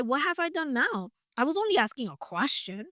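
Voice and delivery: mildly acted defensive younger brother; little-brother protest. David defending himself to his older brother, mildly exasperated. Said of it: "this is such a brother interaction".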